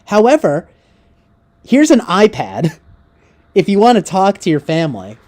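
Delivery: mock staff offering an iPad, laughing; mocking through laughter.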